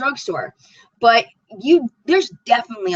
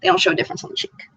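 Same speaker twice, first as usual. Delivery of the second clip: whisper; much faster than usual. Real, not acted. Repeats the line in a whisper.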